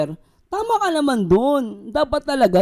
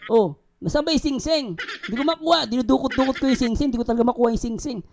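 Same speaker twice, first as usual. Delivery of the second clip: giggling through the words, speeding up; laughing while retelling; 4 semitones higher than usual. Retold or imitated. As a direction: laugh as you rush the story. Retold search for singsing, laughing. (tumatawa habang nagkukuwento, pabilis)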